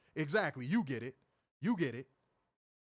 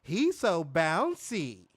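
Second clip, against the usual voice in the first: mocking theme-song vocal; much slower than usual. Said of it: "vocal recording of me saying".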